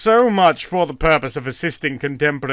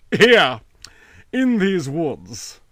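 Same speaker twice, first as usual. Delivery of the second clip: put-on lazy wild boy; 4 semitones higher, 4 dB louder, much slower than usual. A narrator's reading. Boy answers slowly.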